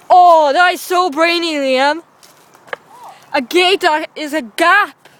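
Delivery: sarcastic. Acted. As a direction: drag out mock admiration. Teasing friend about gate.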